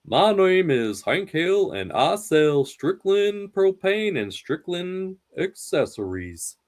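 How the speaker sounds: slow, steady Texan dad voice; measured Hank Hill drawl; Hank Hill impression. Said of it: "Let's do King of the Hill".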